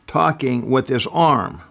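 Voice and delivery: put-on storyteller's restrained version of a child's scream; retold scream. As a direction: imitate an alarmed daughter calling for her mother. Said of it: "ran down the hall screaming".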